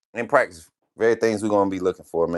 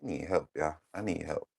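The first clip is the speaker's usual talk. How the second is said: mock despair; 2 semitones lower, 11 dB quieter than usual. Real, not acted. Dog won't obey, mock despair.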